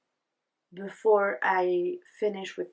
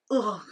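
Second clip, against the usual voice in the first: disgusted groan. Real, not acted. Annoyed at rolling knit stitch.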